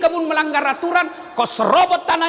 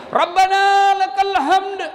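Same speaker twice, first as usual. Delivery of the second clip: higher, louder, slow prayer call; loud slow response; 6 semitones higher, 3 dB louder, slower than usual. Retold or imitated. Muballagh calling the response loud and slow. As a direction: ring it out slowly over the rows.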